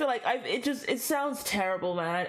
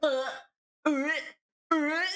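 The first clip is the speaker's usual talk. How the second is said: short, higher squeals of embarrassment; cringing grunts; 6 semitones higher than usual. Real, not acted. Streamer recoils from the accent attempt, cringing grunts. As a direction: recoil in little broken cringing noises.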